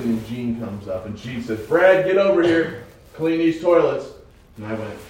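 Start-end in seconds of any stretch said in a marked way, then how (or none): 1.6-4.1 loud barked order to come clean; retold boss yelling an order; bossy shout. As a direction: call him over like a pushy boss. Boss ordering him in retold scene.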